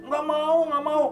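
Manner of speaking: high-pitched mock pleading; comic high wail of refusal; retold scared refusal. Retold friend refusing to open door.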